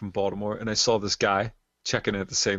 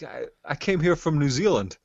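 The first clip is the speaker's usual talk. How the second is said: lightly imitated New Zealand accent, higher; bad New Zealand accent; 5 semitones higher than usual. Festival-goer saying where he came from, bad New Zealand accent. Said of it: "I'm gonna do a bad accent here".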